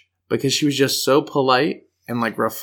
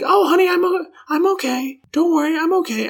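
sweet grandma. Retold or imitated. Injured grandma calming grandchild, in a high sweet voice. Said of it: "she was like".

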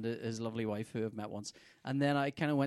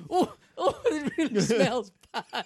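mock disgusted; 9 semitones higher, 8 dB louder, slower than usual. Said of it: "I was kinda going".

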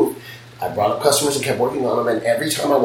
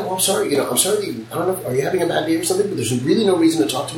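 mildly raised, polite patience; polite and calm; 5 semitones higher, faster than usual. Shown as a demonstration. Owner demonstrating how she talks to rude clients, polite calm. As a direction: stay courteous to a rude customer. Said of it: "I try and keep it just like that".

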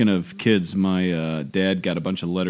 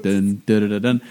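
drum roll. Retold or imitated. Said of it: "drum roll thing".

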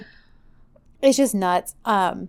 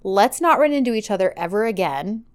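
firm ultimatum. Retold or imitated. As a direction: spell out a final break, measured and firm. Retold firm final rejection.

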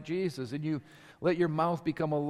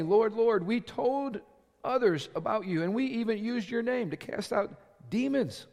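higher-pitched voice, lightly acting out people pleading their case; pleading claimants; 6 semitones higher than usual. Many plead with the Lord at the judgment, mildly pleading. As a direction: plead a little, pitched up, as those being judged.

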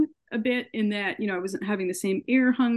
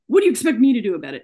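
mild mock yell, quick and louder; retold yell; 2 semitones higher, 5 dB louder, much faster than usual. ER doctor to a patient seeking help, retold yell. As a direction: imitate an irritated yell without fully shouting. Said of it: "he yelled this at me".

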